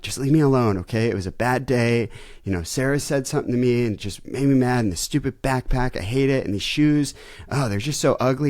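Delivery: whiny complaint about a bad day; upset teen daughter. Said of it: "she goes into this whole spiel".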